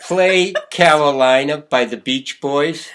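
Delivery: loud, slow, deliberate command to Alexa. Real, not acted. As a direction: spell it out slowly so the speaker understands. Giving the smart speaker a command.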